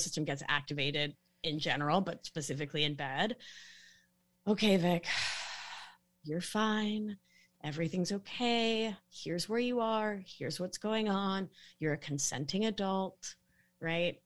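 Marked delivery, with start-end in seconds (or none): 4.5-13.4 calm yourself down gently; soothing self-talk. Shown as a demonstration. Talking herself down when activated in bed, lightly soothing. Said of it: "we can use prosody of voice to talk to ourselves".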